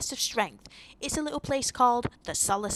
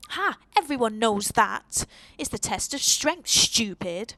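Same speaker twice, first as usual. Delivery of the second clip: spoilt brat voice; 6 dB louder than usual. Acted. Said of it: "I think I've got my spoilt brat voice down".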